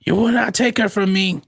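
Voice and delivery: distant tv audio bleeding in; movie sound from another room; tv through wall. Real, not acted. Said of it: "your T V is loud".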